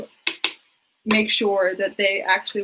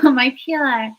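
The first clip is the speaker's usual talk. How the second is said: creepy anime doll voice; 4 semitones higher, slower than usual. Acted. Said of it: "sounds like a little doll in an anime".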